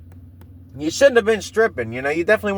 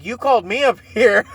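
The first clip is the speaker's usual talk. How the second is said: mildly indignant blurt, pitched higher, breaking into a laugh; 4 semitones higher than usual. Retold or imitated. Retelling his protest to the dancer on stage, lightly blurted out. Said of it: "I just blurted out".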